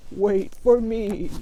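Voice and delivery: very slow bleating sheep; drawn-out sheep plea. Acted. Sheep follows.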